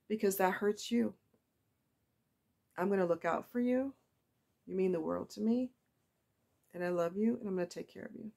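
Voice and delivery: real emotion under gentle reassurance; emotional. Real, not acted. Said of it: "Why am I getting emotional".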